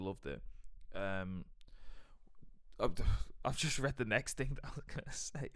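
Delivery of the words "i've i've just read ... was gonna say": higher, giggling through the words; real laughter breaking in; laughing. Real, not acted. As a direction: crack up while trying to talk. Cracks up reading own next note.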